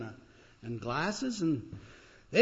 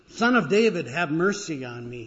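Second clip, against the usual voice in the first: crying out; 7 dB louder than usual. Acted. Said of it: "he cries out".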